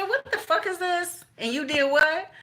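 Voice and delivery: high-pitched loud mock shriek of disbelief; shocked outburst. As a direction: yell it up high in outraged shock. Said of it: "I said".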